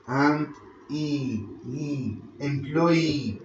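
"E, employee" said slowly, the final E set apart; slow syllable build. Shown as a demonstration. Teacher to students, adding the third syllable, slow. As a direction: add the E sound slowly, then say "employee". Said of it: "This is a third syllable".

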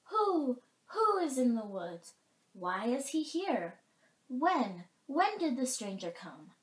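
high hooted questions, falling away; questioning owl. A narrator's reading. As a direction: hoot each question word loudly. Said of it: "asked the Owl of Many Questions".

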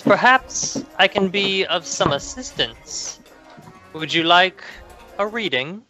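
lightly voiced high crone; old hag.

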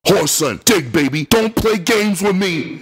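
high, strained angry voice. Acted. Tony angry over the phone at the narrator. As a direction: bark it down the line in rage. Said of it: "Tony's angry voice came over the line".

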